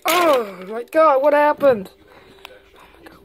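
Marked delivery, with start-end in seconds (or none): 1.9-3.2 slow, hushed whisper of awe. Acted. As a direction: breathe it out in wonder. Exploring a strange place.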